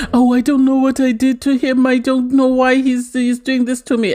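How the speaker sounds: hammed-up fake sob-story voice; mock whiny Ekensu. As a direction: lightly mimic her fake crying complaint. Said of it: "she's pretending to cry".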